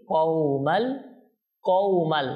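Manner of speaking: কওমাল with a gently gliding "ow"; soft leen glide. Shown as a demonstration. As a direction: ease through the "ow" of কওমাল. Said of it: "তো নরম করে পড়তে হয়". (কওমাল-এর কও নরম করে)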